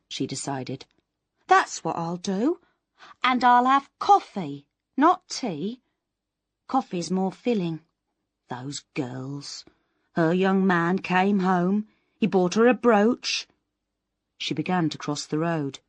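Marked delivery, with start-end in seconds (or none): 1.5-13.5 lightly voiced anxious spinster, higher; a hint of fretful Miss Moss talking herself into a plan; Miss Moss musing. Miss Moss plans her morning aloud, a lightly higher fretful voice.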